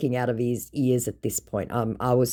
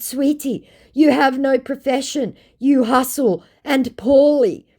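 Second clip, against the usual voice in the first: mock-sweet condescension; condescending sweetie; 12 semitones higher, 6 dB louder than usual. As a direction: talk down to him sweetly. Her condescending retort.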